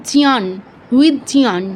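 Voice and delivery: জিয়ান as jnyaan, no g sound; Sanskrit jña demo. Shown as a demonstration. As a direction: say জিয়ান with j sliding into nya. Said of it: "এরকম". (জ্ঞান, জ আর ঞ মিলিয়ে)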